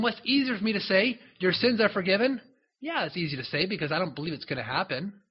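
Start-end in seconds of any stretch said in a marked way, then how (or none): 0.0-2.4 challenging question. Acted. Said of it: "Jesus is saying".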